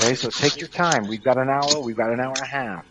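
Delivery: talking around a lollipop; words slurred by a lollipop in the mouth; sucking a lollipop. Real, not acted. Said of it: "someone's sucking on a lollipop".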